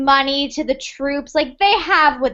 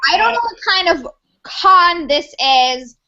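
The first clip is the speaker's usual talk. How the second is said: angry. Acted. General furious at the con.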